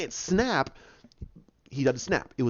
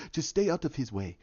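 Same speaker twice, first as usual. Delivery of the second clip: quiet warning; 3 semitones lower, 5 dB quieter than usual. Acted. Repeats T'Challa's quiet warning.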